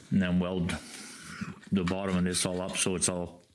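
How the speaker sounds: talking while cracking seeds; words around a mouthful of seeds; eating sunflower seeds. Real, not acted. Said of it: "sorry, I'm eating sunflower seeds".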